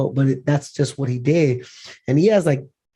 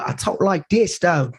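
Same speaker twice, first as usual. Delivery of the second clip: put-on higher-pitched American TV-role accent; American accent impression; 3 semitones higher, slower than usual. Guest mimicking the actor in his Snowfall role, American accent. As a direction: switch lightly into an American accent. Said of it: "You know, in Snowfall".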